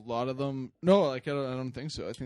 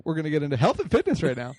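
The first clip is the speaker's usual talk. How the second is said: laughing through the line; fighting back a laugh; 9 semitones higher, 6 dB louder than usual. Real, not acted. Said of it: "I have a monotone voice".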